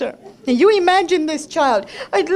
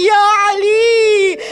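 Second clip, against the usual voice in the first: drawn-out, tearful call; anguished cry; slower than usual. Acted. Imam running to the battlefield, calling out in anguish. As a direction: call out slowly in grief.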